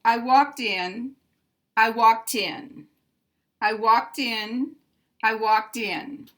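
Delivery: walked in with the T moved onto in; linked T into vowel. Shown as a demonstration. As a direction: say walked in as one smooth word. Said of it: "say all this quickly".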